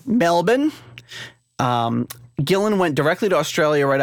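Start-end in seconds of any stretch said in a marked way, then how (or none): 0.0-0.7 Melbourne as MEL-bun, pitched up and rising; Melbourne with no R, lilting upward; proper local pronunciation. Shown as a demonstration. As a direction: show off Melbourne the Australian way. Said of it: "pronounce Melbourne properly".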